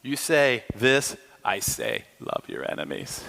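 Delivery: low, softening to a near whisper; calm Jesus. Pretend. Jesus answering the Pharisees, calm and low. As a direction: answer gently, dropping away at the end. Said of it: "And Jesus is like".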